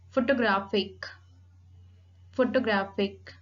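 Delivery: "Photographic" with GRAPH stressed; teacher's model "Photographic", strong GRAPH; accent on third syllable. Shown as a demonstration. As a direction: put the main weight on the third syllable of "Photographic". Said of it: "primary accent on the third syllable".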